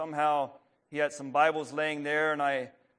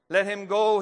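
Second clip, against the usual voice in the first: pleading; 6 semitones higher, 7 dB louder than usual. A narrator's reading. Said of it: "he pleaded".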